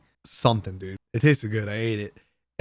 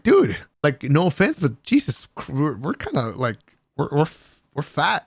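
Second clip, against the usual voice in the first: excited disbelief; 3 semitones higher than usual. Retold or imitated. Retold blunt remark to friends.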